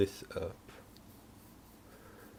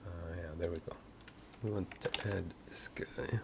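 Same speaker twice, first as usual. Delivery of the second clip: eating cereal; 9 dB quieter than usual. Real, not acted. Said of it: "My apologies again for eating cereal".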